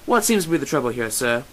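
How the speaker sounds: lightly voiced, playful policeman; hammed-up officer's inquiry; gruff mock officer. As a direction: put on a mock cop's authority. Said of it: "with your gruffest voice".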